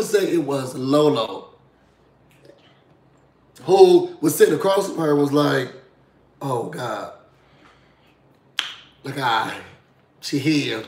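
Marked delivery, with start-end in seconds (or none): 6.4-10.8 low, soft mock aside; hushed dread. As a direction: say it under your breath, pausing uneasily. Retold host realising she is present.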